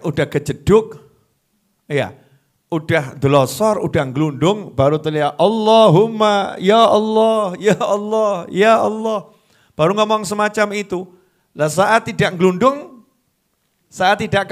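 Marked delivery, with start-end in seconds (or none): 5.4-9.3 mock desperate prayer when trapped; desperate plea. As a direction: plead like someone who has hit bottom.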